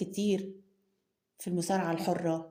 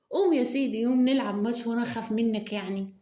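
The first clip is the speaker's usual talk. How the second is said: defiant challenge; 3 semitones higher, 4 dB louder than usual. Acted. Wounded pride, accepting the match.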